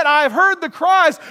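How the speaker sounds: booming divine declaration, slow; proclaiming God. Acted. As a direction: thunder it out as the voice of God. God's words repeated.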